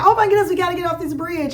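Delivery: quick mock-panicked rush to get moving; retold urgency. Retells own urging on bridge.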